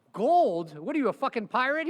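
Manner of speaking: loud, high incredulous jab; mock him like he's a pirate; a lawyer jeering at his client's stash of gold; mocking outburst.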